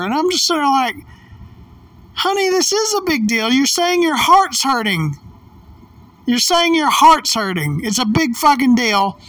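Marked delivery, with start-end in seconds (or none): 2.1-9.2 high-pitched retold pleading argument; re-enacted frustration, higher and emphatic; exasperated insistence. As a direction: drive the point home to a stubborn partner. Retells arguing that it is serious.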